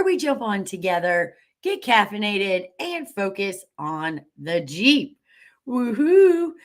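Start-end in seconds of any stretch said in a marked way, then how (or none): 5.7-6.5 excited cheer. Real, not acted. Cheering the Jeep break.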